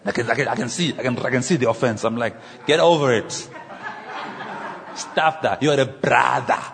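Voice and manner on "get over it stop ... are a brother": loud, ending in a shout; firm telling-off. Retold or imitated. Scolding an offended pastor, loud and firm. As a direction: snap them out of it.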